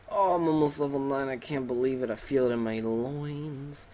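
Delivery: put-on creature voice, stretched ending; hammed-up anticipation; mock-thrilled Pokemon. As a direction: savour the coming level-up, drawing out the last words. Voicing Pokemon nearing level nine.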